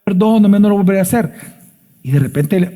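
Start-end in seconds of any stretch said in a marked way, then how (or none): 0.0-1.3 a hint of a sweet-talking abuser; abuser pleading. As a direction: imitate a man begging forgiveness. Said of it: "él dice".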